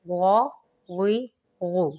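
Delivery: غا full and heavy from the throat. Shown as a demonstration. Teacher drilling heavy غ for students, careful articulation. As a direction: fill out the غ heavily. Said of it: "غائن کو بھی ہم لوگوں نے پر پڑھنا ہے".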